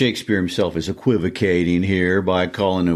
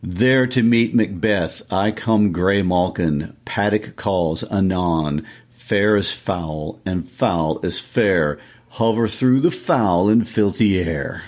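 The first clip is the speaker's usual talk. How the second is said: dramatic verse reading. Acted. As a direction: recite it line by line, drawing out the words. Reads witches' lines from Macbeth.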